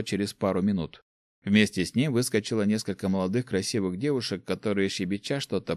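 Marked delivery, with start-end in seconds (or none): none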